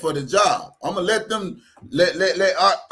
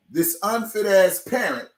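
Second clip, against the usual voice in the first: heated rant; 7 dB louder than usual. Real, not acted. Ranting at absent parent.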